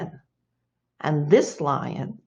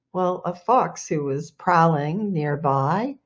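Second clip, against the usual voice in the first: ordinary delivery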